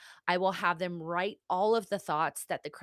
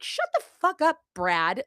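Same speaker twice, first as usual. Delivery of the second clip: high, loud mock yell at Brad; man screaming; 7 semitones higher, 4 dB louder than usual. Inner critic voiced as a man, mock yelling. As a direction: snap it like a man yelling in your ear. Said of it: "have a man be screaming at you".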